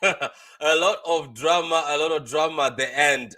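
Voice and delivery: drawn out through a laugh. Real, not acted. Host laughing to viewers about the match drama. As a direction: chuckle as you stretch the words out.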